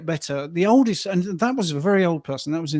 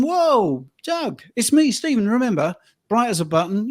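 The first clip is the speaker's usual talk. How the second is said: surprised greeting; 5 semitones higher than usual. Retold or imitated. Greeting old client in park.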